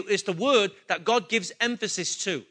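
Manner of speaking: ordinary delivery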